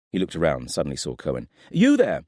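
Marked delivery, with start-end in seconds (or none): 1.7-2.2 loud, high call across the stable. A narrator's reading. Nathaire calling out to Cohen across the yard, loud and sharp. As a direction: summon the girl sharply.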